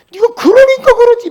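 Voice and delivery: very high, very loud blaming outburst; mock parental scolding. Preacher shows how parents wrongly talk to children, mock furious scolding. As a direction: act out a parent tearing into the child. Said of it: "막 이렇게 말하고".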